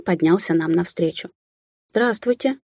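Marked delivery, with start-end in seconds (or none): 1.9-2.6 trembling voice. Acted. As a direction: greet him with a hint of fear. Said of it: "дрогнувшим голосом произнесла я".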